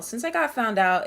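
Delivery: ordinary talk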